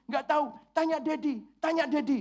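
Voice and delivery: put-on high, whiny little girl's reply; crying little girl. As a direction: play the tearful daughter pointing at Daddy. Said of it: "Kenapa kamu nangis?".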